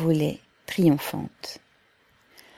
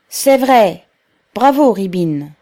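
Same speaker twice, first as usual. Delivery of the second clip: higher, louder approving cry; cheering shout; 3 semitones higher, 9 dB louder, slower than usual. A narrator's reading. Workers cheering Rybine's words, shouting. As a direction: cheer the speaker from the crowd.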